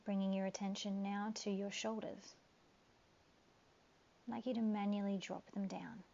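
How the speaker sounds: calm guiding voice with long pauses; guided meditation. Acted.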